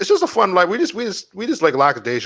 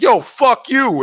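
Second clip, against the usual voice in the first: high, drawn-out retort; mock angry; 9 semitones higher, 3 dB louder, much slower than usual. Peter telling off his boss before hanging up, mock angry. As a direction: imitate an indignant brush-off.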